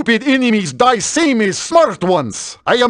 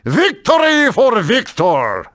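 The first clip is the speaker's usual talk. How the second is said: triumphant shout; slower than usual. Acted. Triumphant battle cry.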